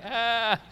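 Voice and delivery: mock open-mouthed "aah"; goofy drawn-out "aah" from the background; photobomb noise. Imitates himself photobombing a wedding.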